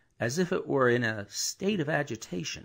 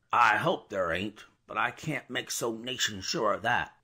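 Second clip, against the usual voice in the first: gruff soliloquy. Acted. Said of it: "in gruff soliloquy".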